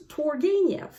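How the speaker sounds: Turgenev as TUR-gay-nev, English style; English pronunciation. Shown as a demonstration. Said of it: "In English".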